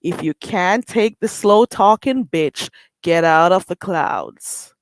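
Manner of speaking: slow, deliberate Jamaican accent; island accent. Real, not acted. Warning haters off her channel, in a slow, firm Jamaican accent. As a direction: lay on the Jamaican lilt, unhurried. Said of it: "strong island accent".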